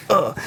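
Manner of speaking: short punched grunt; abrupt vocal "uh"; imitated rapper's "uh". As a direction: grunt it like a hook ad-lib. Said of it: "one of my favorite uhs on it".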